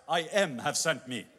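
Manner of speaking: said through a laugh; laughing mock. Moses imagining telling the slaves, laughing. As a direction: chuckle the phrase to the slaves. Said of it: "tell them, Hey, guys".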